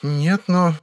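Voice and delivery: put-on a young woman sharing news; girlish, chatty Vera; Vera chatting. A narrator's reading. Vera's voice.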